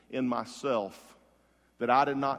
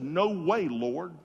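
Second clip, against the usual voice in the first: raised, emphatic retort; vehement protest; 5 semitones higher, 3 dB louder, slower than usual. Retold or imitated. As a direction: protest firmly as a defiant disciple. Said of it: "he spoke more vehemently".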